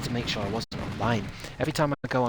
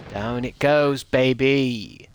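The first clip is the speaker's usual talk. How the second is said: excited cheer; 8 dB louder, much slower than usual. Real, not acted. Cheering boss kill.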